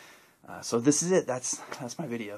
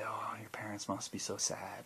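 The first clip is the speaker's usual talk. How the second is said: mock pitying whisper; 5 dB quieter than usual. Stranger pities tattooed vlogger.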